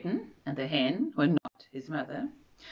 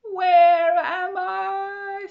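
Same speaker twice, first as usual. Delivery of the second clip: lost and small; 14 semitones higher, 6 dB louder, much slower than usual. Acted. Lost bird after the ride.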